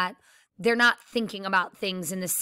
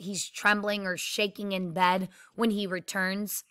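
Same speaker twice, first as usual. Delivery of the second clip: ordinary talk, nothing marked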